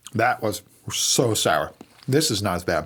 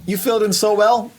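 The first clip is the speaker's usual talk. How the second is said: show host voice; 10 semitones higher than usual. Pretend. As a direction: play the smooth podcast host. Mock show host sign-off.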